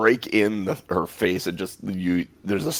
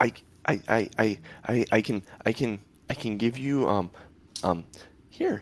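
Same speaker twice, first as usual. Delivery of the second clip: quivering, trembling, quavering creature voice; 5 dB quieter than usual. Voicing a creature that speaks up to the group, in a quivering voice. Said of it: "You hear this quivering voice come out of it".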